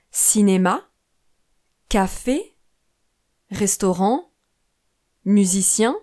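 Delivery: cinéma, café, restaurant, musicien, each word leaning on its final syllable; stress on last syllable. Shown as a demonstration. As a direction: stress the ends: ci-né-MA, ca-FÉ, res-tau-RANT, mu-si-CIEN for cinéma, café, restaurant, musicien. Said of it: "on place l'accent sur la dernière syllabe". (accent sur la dernière syllabe de cinéma, café, restaurant, musicien)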